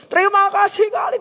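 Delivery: high, gushing thank-you; imitated joyful thanks. Widow thanking the speaker before going home happy, imitated joyful thanks. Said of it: "Dia pulang sukacita".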